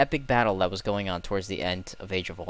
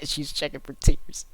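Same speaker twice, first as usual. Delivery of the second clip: laughing it out, slower and higher; laughing disbelief; 5 semitones higher, 5 dB louder than usual. Real, not acted. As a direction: laugh at the absurdity while saying it. Laughing at sister's finger.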